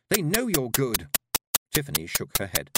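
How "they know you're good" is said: higher, louder encouragement; eager, insistent coaxing; urging. A narrator's reading. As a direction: push a reluctant friend forward. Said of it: "Dimity urged".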